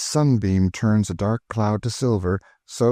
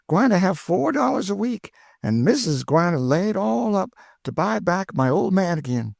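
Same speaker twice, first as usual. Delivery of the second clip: put-on much higher, thrilled old cook; Aunt Chloe delighted; 9 semitones higher than usual. A narrator's reading. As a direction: burst with joy, high and eager. Chloe voiced by the narrator.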